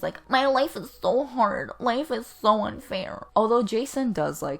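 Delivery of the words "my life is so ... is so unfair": lightly mocked emo teen whine; mildly mocking teenage self-pity; emo teenager. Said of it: "sound like emo teenagers".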